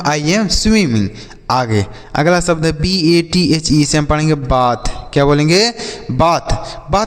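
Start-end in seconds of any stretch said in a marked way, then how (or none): 0.0-1.1 slow, deliberate repeat. Shown as a demonstration. Teacher repeats the example for children, slowly. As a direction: say it again slowly so they catch it. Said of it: "मैं तैर रहा हूँ".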